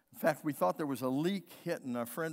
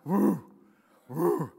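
lion call imitation; 8 dB louder than usual. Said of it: "sounds like a dog with croup".

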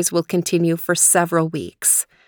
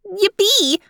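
high, squealing cheer; child's yippee. A narrator's reading. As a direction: cheer like a delighted small girl. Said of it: "Leanie said".

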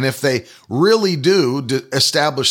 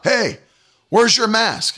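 higher, pushy imitation of the manager; mock store manager; 7 semitones higher, slower than usual. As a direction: voice the manager higher and demanding, mocking him. Manager confronts him in store.

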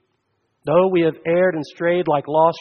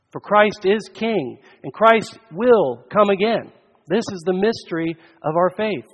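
loud, raised preacher's proclamation; forceful preaching; 3 semitones higher, 5 dB louder than usual. Real, not acted. Preacher to congregation on Christ's finished work, forceful preaching. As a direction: proclaim it from the pulpit, louder.

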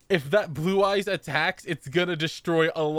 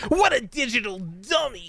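robot voice; 7 semitones higher than usual. Retold or imitated. Quoting the robot line.

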